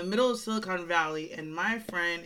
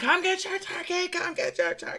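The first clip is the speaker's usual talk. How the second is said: mock very high, shrill, top-of-the-lungs screaming; 12 semitones higher, 3 dB louder than usual. Recalling running around a car from a charging animal, the speaker retells screaming at the top of lungs. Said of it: "screaming at the top of my lungs".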